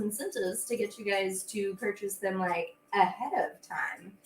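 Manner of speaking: whispered teaser; conspiratorial whisper. Real, not acted. Host whispers a teaser to her viewers, hushed. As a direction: let them in on a secret. Hinting at secret incentives.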